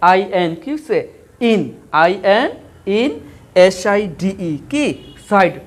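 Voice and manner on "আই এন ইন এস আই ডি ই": letter groups set apart for pupils to follow; ভেঙে ভেঙে বানান. Shown as a demonstration. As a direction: spell in short chunks, a pause after আই এন and after ইন. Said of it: "এগুলো একটু ভেঙে ভেঙে বানান করো". (আই এন, ইন, এস আই ডি ই থেমে থেমে ভাগ করে বলা)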